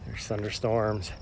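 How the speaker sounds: breathless, talking mid-jog; while running. Real, not acted. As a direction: speak while jogging, between breaths. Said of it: "which is why I'm running".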